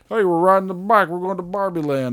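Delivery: high, breezy mock Ken-style voice; lightly voiced carefree bro; mock cheerful dude. Imitating movie characters, breezy and high. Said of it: "When those other".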